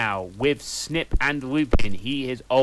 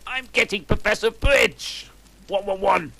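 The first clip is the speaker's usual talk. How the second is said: higher, louder mock fury; mock angry outburst; 9 semitones higher, 5 dB louder than usual. Fudge losing patience with the goths, mock fury. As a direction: snap it out like a hammy teacher. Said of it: "stumped out angrily".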